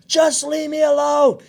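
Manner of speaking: high, slow, loud mock wail; upset crying kid. Son to dad during the party, imitated crying yell. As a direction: drag it out like a kid in tears. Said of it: "I'm crying".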